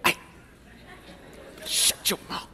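mock couple whisper-arguing in a restaurant; whisper argue. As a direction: quarrel in a fierce stage whisper. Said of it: "they are whisper arguing".

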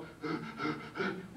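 breathy mock heartbeat thumps; quiet panicked heart noises; imitated pounding heart. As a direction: puff out a racing heartbeat. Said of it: "my heart's going".

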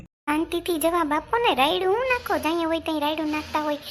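indignant retort. Acted. Wife snaps back in quarrel.

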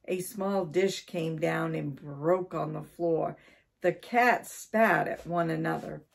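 animated read-aloud storytelling; story narration. A narrator's reading. Storyteller reading about Mister Twiddle and the cat, animated narration. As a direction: tell it clearly with lively stress.

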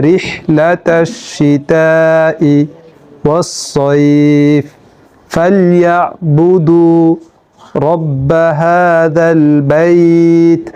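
careful teaching recitation; Quran recitation in pieces. Shown as a demonstration. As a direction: recite phrase by phrase with pauses. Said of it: "আমি কোরআনের আরেকটি সূরা বলছি".

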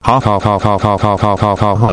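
mechanical, evenly repeated "ha"; mock laugh. Narrator acting out his rampage, mechanical mock laugh. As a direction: stiff looping laugh with no mirth.

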